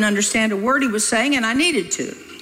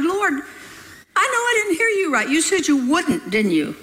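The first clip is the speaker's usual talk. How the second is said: astounded protest; 7 semitones higher than usual. Retold or imitated. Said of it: "I replied".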